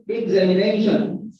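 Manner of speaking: "examination" with main stress on NA; examiNAtion, secondary stress on the second syllable; stress on fourth syllable. Shown as a demonstration. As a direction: model "examination", leaning on the NA syllable. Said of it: "the primary stress is on fourth syllable".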